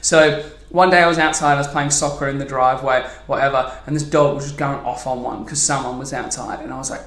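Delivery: ordinary talk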